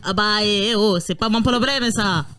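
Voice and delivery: hammed-up Italian-accented French. Player answering the police chief, mock Italian accent. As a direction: put on a joke Italian accent. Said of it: "Bon, bah, italien, ça passe".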